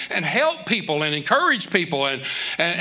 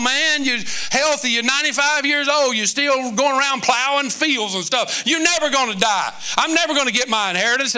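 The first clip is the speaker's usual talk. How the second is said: bratty son; 4 semitones higher than usual. Retold or imitated. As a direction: whine at dad like a spoiled boy. Preacher voices the rude son.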